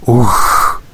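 short, narrated exclamation; exclaimed. A narrator's reading. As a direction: let out a brief exclamation. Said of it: "вигукнув шалена рись". (короткий вигук)

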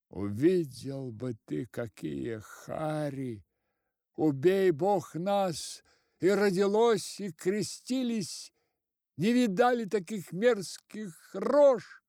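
high, loud, horrified telling; frightened account. A narrator's reading. Constables telling the head, high frightened cry. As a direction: describe the horrors in alarm.

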